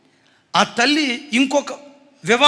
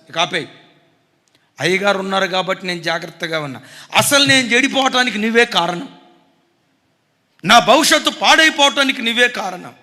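defiant son; 6 dB louder than usual. Retold or imitated. Son snapping at mother.

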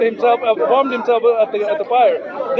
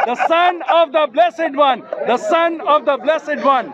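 insistent repetition; 3 semitones higher than usual. Real, not acted. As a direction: hammer the title home, word by word. Repeats verse over opponent's interruptions.

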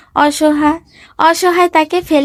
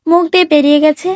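mocking echo; faster than usual. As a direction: throw the excuse back as an indignant question. Wife throws his excuse back. (ব্যঙ্গ করে টেনে বলা)

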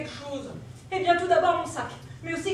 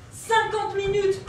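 slow and louder, exasperated; louder slow dismay; 4 semitones higher, 7 dB louder, much slower than usual. Acted. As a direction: stretch it and push it out. Repeats louder.

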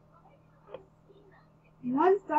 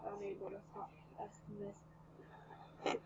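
whisper; 15 dB quieter, slower than usual. A narrator's reading. Mumbled confession.

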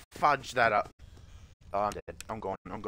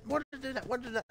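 higher, fading repeated why did I do that; high despairing whine; 12 semitones higher, 3 dB quieter, much faster than usual. Real, not acted. Player just killed, whining in despair at himself. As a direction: lament the mistake, voice still up high. After dying.

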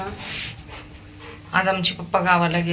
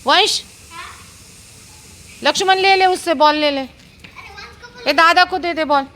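excited calling; 9 semitones higher than usual. Real, not acted. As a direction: egg the dogs on in the game. Urging dogs to play.

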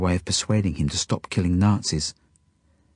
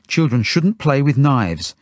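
slow, raised, higher-pitched scolding; stern; 7 semitones higher, 5 dB louder, slower than usual. A narrator's reading. Genya to the boy who once threatened with a knife, stern. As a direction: lay down the rule firmly and slowly. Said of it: "she says sternly to Dove".

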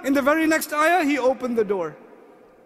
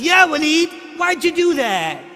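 higher, louder mocking little-sister voice; imitating daughter; 4 semitones higher, 5 dB louder than usual. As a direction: copy the daughter piling on. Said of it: "And my daughter says".

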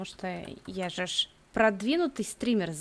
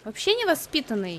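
higher, louder mock outrage; mock indignant; 4 semitones higher, 5 dB louder than usual. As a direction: play at being offended. (шутливое возмущение)

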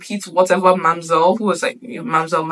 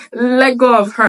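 put-on head girl scolding; 4 semitones higher, 5 dB louder than usual. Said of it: "she's like".

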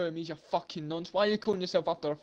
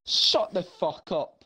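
slow menacing order; slower than usual. Real, not acted.

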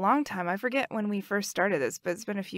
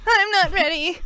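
high, loud silly squeak; not-ready voice; 8 semitones higher, 7 dB louder than usual. Acted. Cued to introduce the topic, putting on not-ready voice. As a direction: squeal it in a put-on voice, half laughing. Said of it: "It's my not ready voice".

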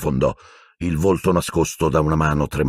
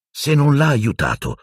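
high, sharp angry challenge; furious Harry; 9 semitones higher than usual. A narrator's reading. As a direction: throw it at Black with fury. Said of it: "lanciando a Black uno sguardo furioso". (Harry furioso, acuto e tagliente)

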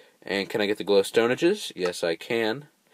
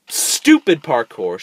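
slow, a bit louder, irritated mutter; annoyed grumble; 3 semitones higher, 5 dB louder, slower than usual. Real, not acted. Player grumbling at parkour, slow and annoyed. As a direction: grit it out before exploding. First, held-back take.

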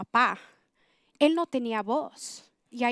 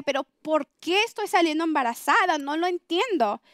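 mildly angry, higher-pitched retold protest; exasperated anger; 3 semitones higher than usual. Woman recalling her third pregnancy, asking herself why, mildly angry. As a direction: retell a frustrated, indignant question. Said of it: "Y yo estaba enojada".

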